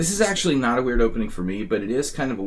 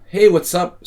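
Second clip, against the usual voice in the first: put-on bubbly valley girl greeting, higher and louder; 10 semitones higher, 10 dB louder than usual. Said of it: "talk like a valley girl".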